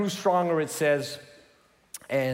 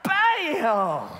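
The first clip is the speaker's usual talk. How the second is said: higher, laughing mock bang; laughing bam; 7 semitones higher, 4 dB louder than usual. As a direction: slam it in with a laugh. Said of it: "And she's like".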